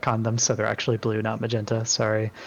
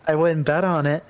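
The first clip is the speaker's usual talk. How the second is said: chirpy; 5 semitones higher, 3 dB louder than usual. Acted. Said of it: "Hoopy chirps back with a wink".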